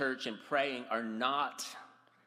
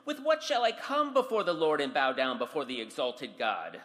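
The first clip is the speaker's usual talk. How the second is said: sarcastic; 4 semitones higher than usual. Acted. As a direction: needle them with fake innocence. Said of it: "he's being sarcastic when he says".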